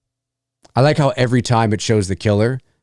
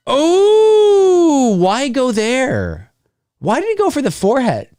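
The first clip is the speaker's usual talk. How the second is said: shocked cry; 5 dB louder, slower than usual. Real, not acted. Reacting to gory kill on screen.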